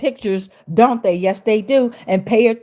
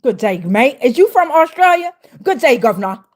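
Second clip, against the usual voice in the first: mock Aussie greeting; jokey Australian accent, breaking toward a laugh; playful Australian accent; 3 dB louder than usual. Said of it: "could be seen in Australia".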